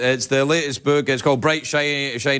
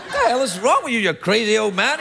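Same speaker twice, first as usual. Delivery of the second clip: higher-pitched, incredulous retort; mock indignation; 5 semitones higher than usual. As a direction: play at telling off a crazy old man. Acting out his retort to Regis.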